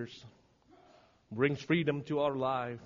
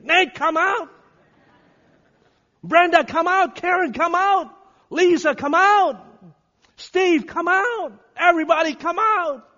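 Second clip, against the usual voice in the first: high, loud repeated summons; commanding calls at full voice; full shout; 13 semitones higher, 13 dB louder than usual. Acted. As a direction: shout each name across the congregation. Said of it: "he's shouting to all of us".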